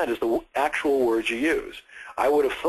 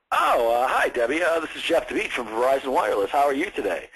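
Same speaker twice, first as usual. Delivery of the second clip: stumbling caller; 3 semitones higher than usual. Retold or imitated. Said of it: "you start stumbling and fumfring and mumbling".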